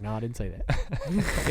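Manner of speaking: lightly voiced stunned no; mock whisper denial. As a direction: breathe it out in disbelief. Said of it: "I was like".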